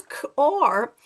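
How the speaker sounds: segmented word in a Scottish accent. Shown as a demonstration. Teacher counts the sounds in car, Scottish accent. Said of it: "Put a Scottish accent".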